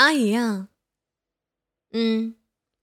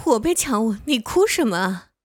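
louder, half-laughing disbelief; exasperated outburst; 5 dB louder than usual. Acted. Kissed against her will, she protests louder in exasperation. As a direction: throw up your hands in protest. Exasperated after forced kiss.

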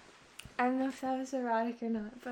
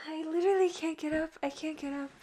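flustered; 2 semitones higher, 5 dB louder, faster than usual. Real, not acted. Flustered, can't get up.

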